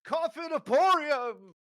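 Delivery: high, sing-song salesman welcome, slowing at the end; a giddy huckster calling customers in; eager shopkeeper. Acted. Game master voices a giddy shopkeeper greeting the party, high and sing-song.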